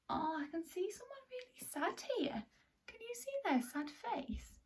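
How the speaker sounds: soft secretive whisper; hushed whisper. Pretend. Teacher whispering about a sad picture. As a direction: lean in and whisper.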